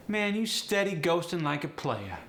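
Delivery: high, teasing AAVE. Shown as a demonstration. Teacher showing "steady" in use, AAVE. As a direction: AAVE with pitch well up. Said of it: "Steady is the other one".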